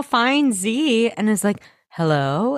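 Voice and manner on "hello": beautiful soothing voice. Retold or imitated. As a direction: greet her gently, like a kind mother. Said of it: "in her, like, beautiful, soothing voice".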